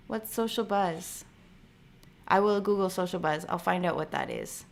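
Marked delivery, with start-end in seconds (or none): 0.1-1.3 softer repeat. Shown as a demonstration. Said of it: "repeats the question".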